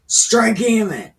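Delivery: commanding order. Retold or imitated. Absalom ordering his servants, loud command. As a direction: bark the order. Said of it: "Absalom commanded his servants".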